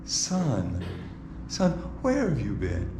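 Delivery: Son, son, where have you been said low and hushed; a mother murmuring softly, almost to herself. Shown as a demonstration. Preacher demos Mary's wrong soft voice to the ladies. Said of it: "Now, how are you saying it?".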